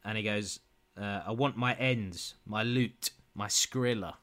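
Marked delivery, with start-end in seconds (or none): 1.3-4.1 slow deadpan. Shown as a demonstration. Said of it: "read it deadpan".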